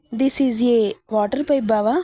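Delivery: slow, deliberate, teasing each word out; slow cheeky answer. Acted. Wife teasing her angry husband with a slow, pointed reply. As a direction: spell it out slowly to needle him.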